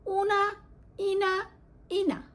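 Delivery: উনা, ইনা sung out high and clear; ending drill. Shown as a demonstration. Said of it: "উনা sound হচ্ছে রাফা". (উচ্চস্বরে উনা, ইনা শেষাংশ)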